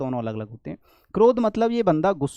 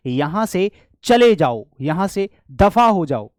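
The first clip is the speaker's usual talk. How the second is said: louder, slower, get out; angry dismissal; 6 dB louder, slower than usual. Shown as a demonstration. Teacher acting out an angry order to leave, louder and slower. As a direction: order someone out in anger. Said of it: "मैंने कहा".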